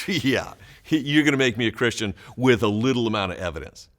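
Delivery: mock sarcasm through a laugh; a dry, scoffing "Yeah, you're gonna" with a chuckle; sarcastic jab, half laughing. Shown as a demonstration. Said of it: "or is he saying".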